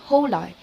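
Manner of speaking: "holai", hotel ending like the start of airline; imitated mispronunciation. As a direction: say hotel wrongly as "holai", ho plus lie. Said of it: "when he tried to pronounce hotel".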